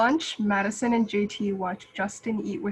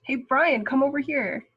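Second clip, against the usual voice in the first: louder, higher friendly call; calling over; 5 semitones higher, 4 dB louder than usual. Acted. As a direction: wave him over with your voice. Calling Brian over at lunch.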